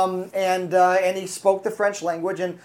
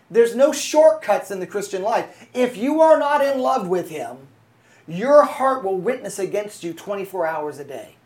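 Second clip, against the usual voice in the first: raised sermon voice, key words leaned on; emphatic preaching; 2 semitones higher, 4 dB louder than usual. Real, not acted. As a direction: press the warning on the congregation. Preaches a warning to congregation.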